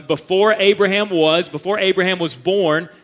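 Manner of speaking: preacher's emphatic quote; emphatic proclamation. Acted. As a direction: proclaim it to the crowd. Quoting Jesus emphatically.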